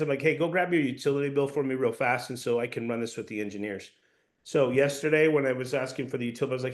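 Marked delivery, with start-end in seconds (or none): 0.2-3.9 matter-of-fact instruction, no question; giving a command. Shown as a demonstration. Salesperson sending a homeowner for the bill, commanding. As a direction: tell them to do it, evenly. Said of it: "Sometimes I just give commands".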